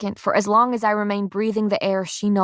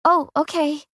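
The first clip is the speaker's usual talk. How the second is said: small, higher-pitched shy reply; soft, shy; 8 semitones higher than usual. A narrator's reading. Helper answering a harsh refusal, soft and shy. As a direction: accept meekly, a little taken aback. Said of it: "shyly meets my ears".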